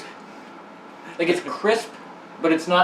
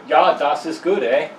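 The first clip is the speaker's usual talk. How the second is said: put-on German-Canadian accent; 4 semitones lower than usual. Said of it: "how do you do a Canadian accent but being German".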